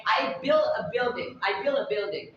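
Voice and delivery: BUILT said like "bill" before "a building"; T dropped. Shown as a demonstration. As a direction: run BUILT into the next word without its T. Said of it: "you're not pronouncing the word T".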